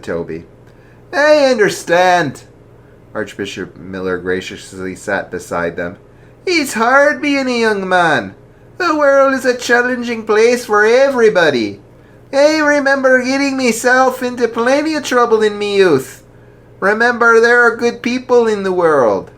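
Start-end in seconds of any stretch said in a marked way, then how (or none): 1.1-2.4 high, loud, slow kindly priest voice; jolly archbishop. Acted. Archbishop asking the lads why, hearty and slow. 6.4-19.3 jolly archbishop. Acted. Archbishop voiced in story.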